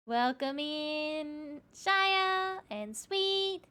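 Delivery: slow, high sing-song welcome; cute anime streamer. Acted. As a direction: stretch each word out sweetly. Welcoming named raiders slowly.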